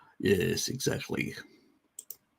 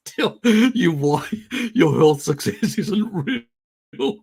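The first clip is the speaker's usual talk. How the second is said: mock drawl; 7 semitones higher, 5 dB louder, slower than usual. Reading comment mockingly.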